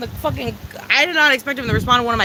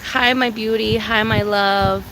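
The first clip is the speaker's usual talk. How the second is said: tender; 5 semitones lower, slower than usual. Real, not acted. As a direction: coo lovingly at the pet. Greeting pet tenderly.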